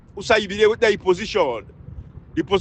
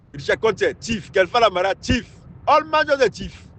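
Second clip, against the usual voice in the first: scornful accusation. Real, not acted. Listing names, calling each thief.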